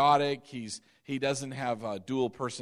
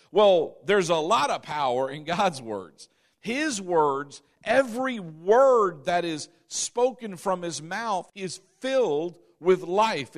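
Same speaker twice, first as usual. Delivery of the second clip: louder, driving preaching; 2 semitones higher, 4 dB louder than usual. Acted. Preacher pressing the point to the congregation, fervent. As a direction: build the sermon to full force.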